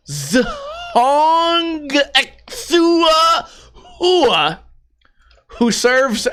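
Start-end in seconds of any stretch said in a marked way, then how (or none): 0.1-4.6 Zahong Ixiua Hua drawn out very slowly and higher. Shown as a demonstration. Slowing down to read the examiner's name, very slow. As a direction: stretch out every syllable of Zahong Ixiua. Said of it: "let me do it slow".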